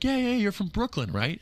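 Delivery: imitating Hank eagerly. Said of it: "And he's like".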